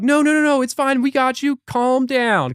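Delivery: high-pitched, rapid reassuring "no, no, no"; mock soothing. Spirit guides calming a man who's freaking out, high mock soothing.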